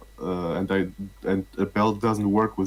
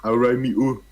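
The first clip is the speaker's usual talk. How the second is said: put-on Jamaican accent; 3 semitones higher, 5 dB louder than usual. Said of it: "there was a Jamaican copy pasta".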